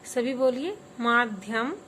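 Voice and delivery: सभी बोलिए माध्यम said slowly and clearly, urging all to join; teacher leads class in माध्यम; slow model pronunciation. Shown as a demonstration. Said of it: "सभी बोल रहे हैं".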